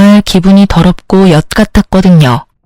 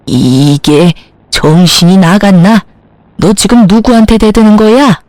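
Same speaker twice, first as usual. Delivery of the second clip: outraged mother-in-law. Acted.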